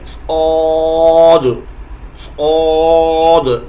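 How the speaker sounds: سعود stretched slow with no w sound; drawn-out letter name. Shown as a demonstration. Teacher correcting the letter saad for students, slow. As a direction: hold سعود long and round. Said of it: "واو کی آواز اس میں نہ آئے".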